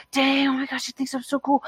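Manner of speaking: high, gushing awe; hammed-up giddy disbelief; mock smitten. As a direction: replay a starstruck reaction. Acts out being smitten by attention.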